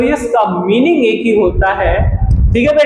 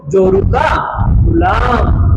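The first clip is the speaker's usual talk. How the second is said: emphatic shout; 2 semitones higher, slower than usual. Shown as a demonstration. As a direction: shout जोरू का to drive the meaning home, then land गुलाम. Teacher punches the Hindi meaning.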